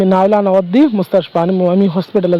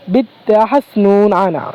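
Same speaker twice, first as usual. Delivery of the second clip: slow demo; slower than usual. Shown as a demonstration. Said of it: "এভাবে বলতে পারেন".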